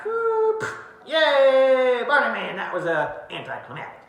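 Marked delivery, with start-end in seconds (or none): 0.0-2.6 a high, hammed-up whoop and yay; mock cheer. Imitating the crowd cheering as the man topples, a high mock whoop.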